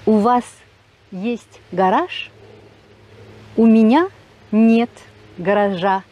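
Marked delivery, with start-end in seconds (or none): 3.6-6.0 "гаража" said with its final A clearly marked after a loud "У меня нет"; loud "У меня нет", then land on the A of "гаража"; stress the ending. Shown as a demonstration. Teacher shows learners the genitive A ending, loud and deliberate. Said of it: "donc le A".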